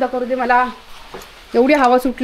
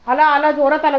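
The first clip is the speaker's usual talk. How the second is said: ordinary talk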